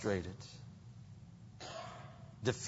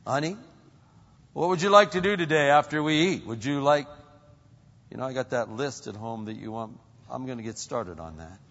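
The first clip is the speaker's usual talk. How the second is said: louder, quicker, eager to please husband; a husband keen to please his wife, louder and fast; 3 semitones higher, 9 dB louder than usual. Retold or imitated. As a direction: rush to serve your wife, bright and fast.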